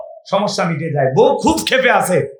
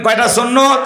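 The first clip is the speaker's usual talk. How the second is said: asked again, much louder; louder call; 3 semitones higher than usual. Shown as a demonstration. Preacher asking the crowd again, louder. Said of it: "আরো জোরে বলেন".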